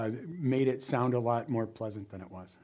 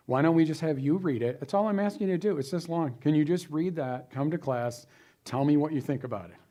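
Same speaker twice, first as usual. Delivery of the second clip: raised, emphatic teacher's plea; exasperated appeal; 3 semitones higher than usual. Acted. Teacher begging students to just read it, exasperated. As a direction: press the point, pitch jumping up.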